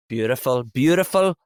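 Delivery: Irish pronunciation, hitting the D in "Beautiful"; Irish accent. Shown as a demonstration. Scottish actor comparing accents, Irish-accented "beautiful". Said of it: "Irish people will say".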